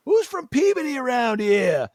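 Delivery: high, loud call across the booth. Retold or imitated. Asking the booth staff loudly, calling out. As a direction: shout it out to find your people.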